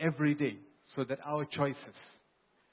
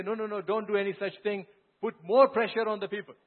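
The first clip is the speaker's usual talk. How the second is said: eager advice; 5 semitones higher, 4 dB louder, faster than usual. Acted. Young peers urging harsh rule.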